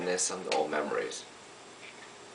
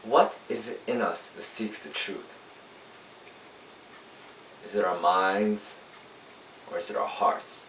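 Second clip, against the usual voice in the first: lawyer's summation; 3 dB quieter than usual. Acted. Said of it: "I play a lawyer".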